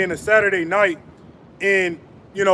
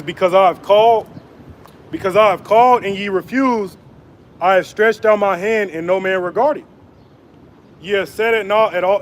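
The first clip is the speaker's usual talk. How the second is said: measured preaching cadence, weighty and deliberate; scripture reading. Acted. Preacher reading Isaiah to his viewers, solemn proclaiming. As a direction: proclaim the verses like a street preacher. Reads Proverbs aloud.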